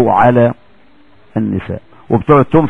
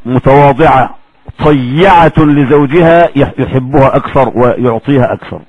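usual speaking voice

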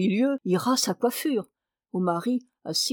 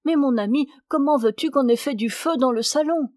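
absent-minded; 4 semitones higher, 3 dB louder than usual. Acted. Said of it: "Madame distraite".

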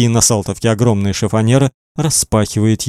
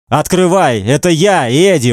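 higher, forced-out demand; 5 semitones higher than usual. A narrator's reading. Man pounding on a door demands entry, forcing words out. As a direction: push the words out urgently. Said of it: "выталкивает он из себя".

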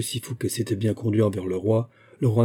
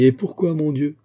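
higher, louder cry of surprise; astonished exclamation; 6 semitones higher, 5 dB louder than usual. A narrator's reading. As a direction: exclaim it in dismayed surprise, pitched up. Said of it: "s'écrièrent ses amis". (exclamation de surprise, plus aiguë et plus forte)

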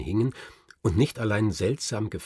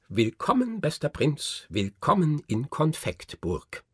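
much higher, then slowing greeting; effusive welcome; 6 semitones higher than usual. A narrator's reading. Little man in a brocade robe welcomes the prince, high and effusive. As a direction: fling open the welcome like a fussy courtier.

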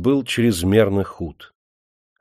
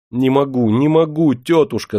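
louder, higher pleading cry; desperate cry; 5 semitones higher, 4 dB louder than usual. A narrator's reading. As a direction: cry out in despair. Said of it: "закричал Андрейка".

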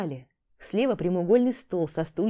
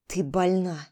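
plain reading voice

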